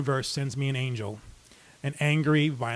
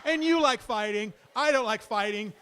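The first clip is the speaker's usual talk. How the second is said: lightly voiced sweet-talking matchmaker, a notch higher; hammed-up cupid pairing off the two brawlers; a playful hint of a matchmaker; mock matchmaker; 5 semitones higher than usual. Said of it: "I feel like I'm a matchmaker".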